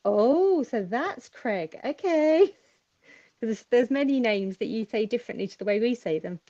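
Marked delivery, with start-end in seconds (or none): 0.1-2.5 mild surprised realisation, rising on "Okay"; dawning realisation. Retold or imitated. Guest retelling how she learned the name, mock realisation. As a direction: act out the penny dropping. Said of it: "I'm like".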